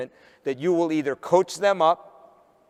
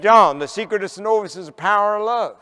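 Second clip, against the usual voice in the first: louder, higher Southern drawl in one run; repeated Southern drawl; 3 semitones higher, 3 dB louder than usual. Retold or imitated. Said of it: "Could you say that again?".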